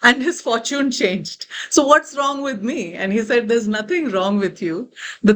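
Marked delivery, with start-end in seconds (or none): 0.0-2.9 perplexed. Acted. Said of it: "Arjuna was perplexed".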